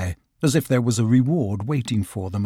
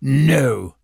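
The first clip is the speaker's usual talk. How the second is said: cross voice from within; 4 dB louder than usual. Acted. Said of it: "said a cross voice from within".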